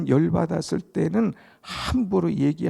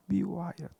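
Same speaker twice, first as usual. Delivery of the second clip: 미워하였더라 repeated much softer, falling; soft echo; 3 semitones higher, 8 dB quieter, much faster than usual. Shown as a demonstration. Preacher echoing 미워하였더라 softly to his hearers. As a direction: drop the voice on 미워하였더라.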